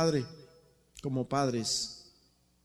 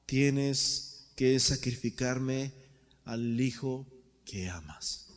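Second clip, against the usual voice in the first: voz de Dios; 2 semitones lower, much slower than usual. Acted. Dios habla a Abraham, lento.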